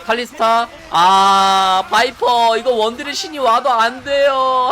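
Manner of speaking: loud hype play-by-play call; esports caster. Real, not acted. Caster calling Viper's carry play.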